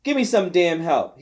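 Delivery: put-on old man shouting toward the kitchen for help. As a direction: call for help across the house. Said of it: "he shouted toward the kitchen door".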